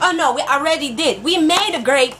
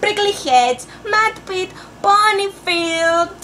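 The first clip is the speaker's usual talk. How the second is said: slow call and response; 3 semitones higher, slower than usual. Shown as a demonstration. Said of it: "You say it with me".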